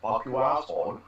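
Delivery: imitated Austrian accent, mildly done; Arnie. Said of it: "in a perfect Arnie accent".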